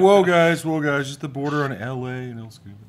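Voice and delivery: high, loud whoa, then easing; hammed-up calling out to the guys; acted alarm. Friend mimicking him at the border, high mock alarm. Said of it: "You're like".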